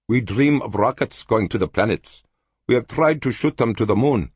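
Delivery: lightly voiced hopeful alien scholar; a hint of a yearning dreamer; Cultan, eager. A narrator's reading.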